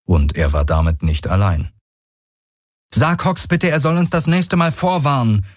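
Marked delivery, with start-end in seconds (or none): 2.9-5.5 high, urgent call to Galen. Acted. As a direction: call it across, pitched way up. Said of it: "rief Kirai".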